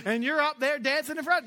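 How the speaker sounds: ordinary talk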